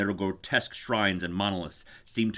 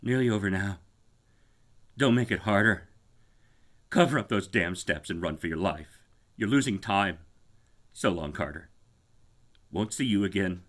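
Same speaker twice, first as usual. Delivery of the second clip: faint voice. Acted. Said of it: "the faint voice of Warren".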